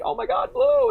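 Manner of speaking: high mock excitement; mock surprised squeal. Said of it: "I'd be like".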